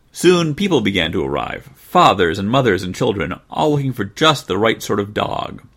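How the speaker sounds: put-on lively children's storybook reading; story narration. A narrator's reading. Narrator opens a puppy's tale, lively storytelling. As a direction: read it aloud to little ones.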